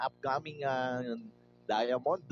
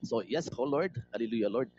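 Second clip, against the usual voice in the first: host praying aloud before the business meeting, sincere and hushed; prayer; 3 semitones lower, faster than usual. Acted. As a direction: lead the group in prayer, humbly. Leads a group prayer.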